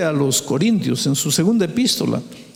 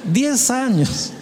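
drawn out, higher and heavier; slow emphatic repeat; 5 semitones higher, much slower than usual. Real, not acted. Preacher stressing to the congregation how young she was, slowly. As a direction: let each word land slowly.

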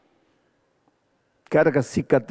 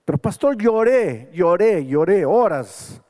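emotional retelling; 6 semitones higher than usual. Retold or imitated. Recalling a night of weeping.

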